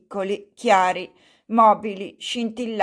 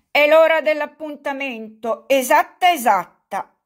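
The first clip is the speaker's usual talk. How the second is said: put-on raised, louder old man's call; mild shout; 6 semitones higher, 5 dB louder than usual. A narrator's reading. Old buffoon calling out to the elder, raised and louder. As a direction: announce the hour with a lifted voice. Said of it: "gridò Fyodor Pavlovich".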